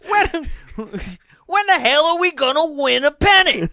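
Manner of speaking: high, loud whiny vendor; stadium vendor hawking. Pretend. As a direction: cry out as the vendor. Vendor bit again.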